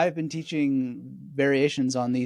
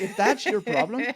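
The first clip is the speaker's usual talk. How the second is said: curt, dismissive mentor voice, pitched higher; brusque old jurist; 7 semitones higher than usual. Retold or imitated. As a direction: snap it off like an impatient old master. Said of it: "I'm channeling his voice 'cause he's quite brusque".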